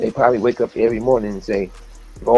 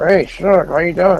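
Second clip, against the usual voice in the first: mock through-teeth speech, higher, louder, slower; 6 semitones higher, 4 dB louder than usual. Speaker imitates how a man with fake teeth greets people, talking through his teeth. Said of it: "Like through his teeth".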